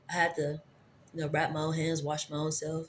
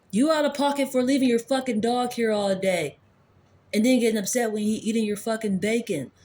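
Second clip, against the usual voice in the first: indignant rant; 4 semitones higher than usual. Retold or imitated. Scolding the aunt over the dog and bacon, heated. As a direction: lay into her about the bacon.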